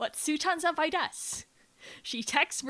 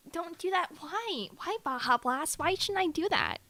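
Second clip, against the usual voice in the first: put-on voice; 5 semitones higher than usual. Continuing the put-on high voice.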